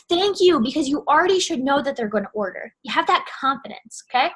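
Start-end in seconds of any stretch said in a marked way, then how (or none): 0.1-0.6 grateful. Shown as a demonstration. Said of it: "just be like".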